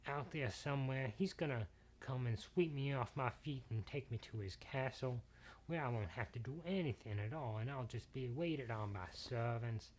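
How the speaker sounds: put-on soft, wistful girlish daydreaming; dreamy daughter. Daughter daydreaming aloud about her knight, soft and dreamy. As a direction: sigh out a fantasy of being rescued.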